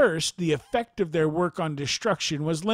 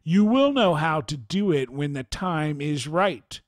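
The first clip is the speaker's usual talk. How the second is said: angry and brusque; 3 dB louder than usual. Retold or imitated. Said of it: "answered in an angry and brusque voice".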